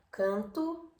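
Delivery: canto nasalized, Portuguese style. Shown as a demonstration. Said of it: "portugués".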